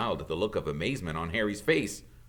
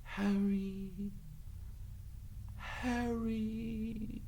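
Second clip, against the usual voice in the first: voices crying out; 13 semitones higher, 9 dB quieter, much slower than usual. A narrator's reading.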